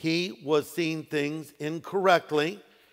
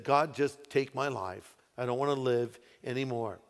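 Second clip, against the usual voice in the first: weary despair; 4 semitones lower, 6 dB quieter than usual. Retold or imitated. Elijah despairing in cave.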